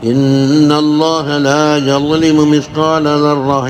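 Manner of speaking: slow, measured recitation with drawn-out vowels; Quran recitation. Retold or imitated. Teacher recites a verse for listeners, slow Quran recitation. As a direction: recite the verse slowly, holding the long vowels. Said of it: "ഓതി".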